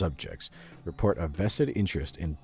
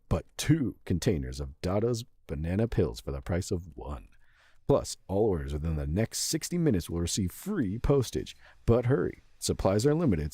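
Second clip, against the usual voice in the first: hyped TV sales pitch; infomercial. Pretend. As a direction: sell it like a late-night infomercial host. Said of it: "I guess I should voice this like an infomercial".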